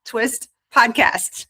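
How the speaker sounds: slow, stumbling through a laugh; laughing tongue twister. Shown as a demonstration. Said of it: "say that three times fast".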